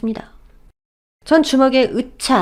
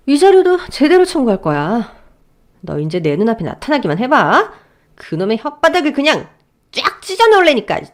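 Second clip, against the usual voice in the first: high, loud threat; furious threat; 4 semitones higher, 3 dB louder than usual. Acted. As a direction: tear into him. Wife threatens husband. (남편에게 이를 가는 아내)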